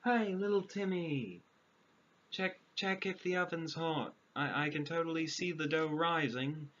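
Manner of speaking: sweet-talking a child toward the oven, lightly mocking; mock sweet witch. Narrator mocking the witch luring a child, sing-song coaxing. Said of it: "Was this a legitimate cooking tactic".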